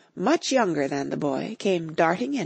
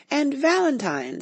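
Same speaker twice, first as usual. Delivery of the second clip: excited; 8 semitones higher than usual. A narrator's reading. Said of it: "in a most extraordinary voice".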